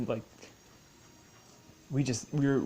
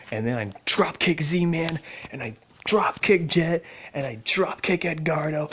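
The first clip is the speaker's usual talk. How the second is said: worked-up boasting; 4 semitones higher, 4 dB louder than usual. Retold or imitated. Imagined rampage building to godhood.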